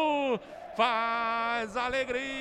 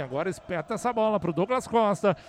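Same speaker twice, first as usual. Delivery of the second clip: building excitement; 6 semitones lower, faster than usual. Real, not acted. Attack builds to goal.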